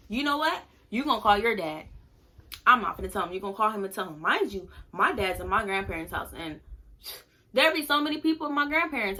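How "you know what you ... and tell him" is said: retold motherly order, a touch angry; imitating mad mom. Mom ordering her daughter to call her dad, mildly mad. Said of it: "my mom was very mad".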